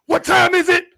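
high, loud call to the crowd; hype call. Acted. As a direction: pump up the room.

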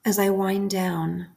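calm, unhurried prayer with long pauses between phrases; guided prayer meditation. Acted. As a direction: lead a bedtime prayer, leaving room to repeat each phrase. Leads a bedtime guided prayer.

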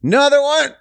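exasperated exclamation. Real, not acted. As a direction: throw it out in disbelief. Repeat louder, exasperated.

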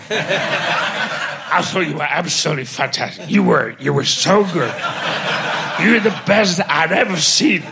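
laughing through the praise; slurred drunken two-part praise; voices merged. Retold or imitated. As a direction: giggle while gushing over him. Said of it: "played the two parts".

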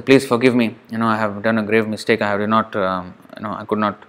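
soft, low plea for forgiveness; retold begging apology. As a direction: imitate a humble, hushed apology. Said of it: "begged for apology".

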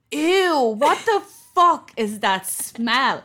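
loud, slow, high disgusted shriek; hammed-up horrified stranger; disgusted shout. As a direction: shriek it like the girl who caught the smell. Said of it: "she goes".

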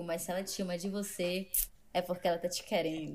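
dropped voice, sly; low teasing punchline. Shown as a demonstration. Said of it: "meme punchline".

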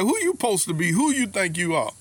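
retold indignation, pitch jumping up; indignant. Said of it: "they got indignant".

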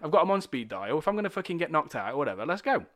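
acted-out cocky dare; defiant bravado. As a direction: egg yourself on to face it. Retelling his dare to his anxiety.

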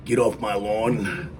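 mock-yell at the kids off the lawn; grumpy old guy. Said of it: "be like the old grumpy guy and yell out the window".

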